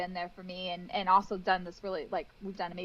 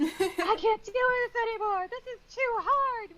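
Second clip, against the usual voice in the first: higher, slow mock despair whine; hammed-up frustrated teammate, higher and slow; exasperated teammate; 13 semitones higher, 5 dB louder, slower than usual. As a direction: whine it out like he's at the end of his rope. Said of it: "not crying, but swearing".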